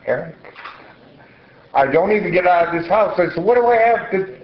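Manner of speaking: high, strained pleading; plead, voice rising high. Retold or imitated. Her pleading reply retold.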